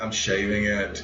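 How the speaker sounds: low, slow retold comeback; firm insistence. Retold firm answer to objection.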